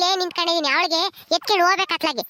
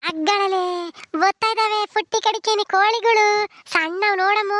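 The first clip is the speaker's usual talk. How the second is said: higher, drawn-out coo; playful baby talk; 4 semitones higher than usual. Acted. Granny showing the little one the hens, playful high baby talk. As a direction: point things out in singsong for a baby.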